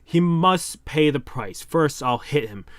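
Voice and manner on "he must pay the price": He must pay the price said slowly and deliberately; slow, careful retry. Shown as a demonstration. Reader retries a fumbled manga line, slowly. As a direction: redo the line slowly, word by word. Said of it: "I'm sorry for fucking up the word".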